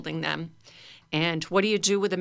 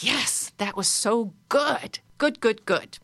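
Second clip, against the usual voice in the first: satisfied; 4 semitones higher, slower than usual. Shown as a demonstration. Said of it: "rub your belly like".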